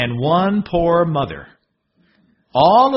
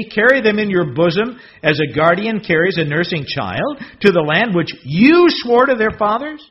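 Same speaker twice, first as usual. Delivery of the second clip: discouraged Moses; 6 semitones higher, 4 dB louder than usual. Acted. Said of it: "he is very discouraged".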